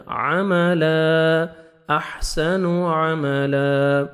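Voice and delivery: عملا very slow, ending on a long alif; slow tajweed drill; stop on alif. Shown as a demonstration. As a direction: stretch the final alif of عملا. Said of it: "الف مدہ میں change ہو جائے گا".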